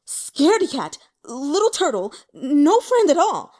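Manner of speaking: loud, high, raging insults; furious yelling. Acted. Young man cursing his absent friends in a furious yell. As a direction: spit the insults out in a fury. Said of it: "fair smoking with rage".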